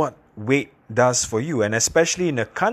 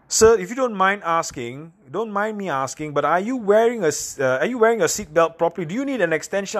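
loud flight attendant; 8 semitones higher than usual. Retold or imitated. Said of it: "she actually said quite loudly".

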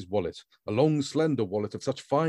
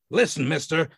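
higher, angry heavy through clenched teeth; between clenched teeth; 6 semitones higher, 4 dB louder than usual. A narrator's reading. The man warning Grand, through clenched teeth. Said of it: "said the man between clenched teeth".

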